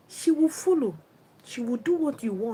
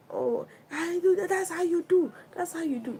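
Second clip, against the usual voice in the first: higher, mock tearful wife complaining; whiny wife; 6 semitones higher than usual. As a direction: play the wife whining at her husband, a touch tearful. Wife complaining, voiced by speaker.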